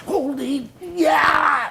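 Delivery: high, loud whoop of relief; excited yell. Retold or imitated. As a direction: cry out like you just made it through. Retelling wild ride through ditch.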